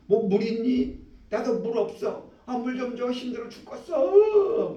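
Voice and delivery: thirsty pilgrim pleading, worn out; parched desert traveler. Acted. Preacher voicing exhausted Israelites begging for water.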